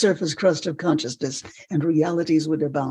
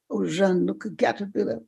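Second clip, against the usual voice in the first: put-on hushed French-accented wonder; 4 dB quieter than usual. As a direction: point out a discovery in a French accent. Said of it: "in a French accent".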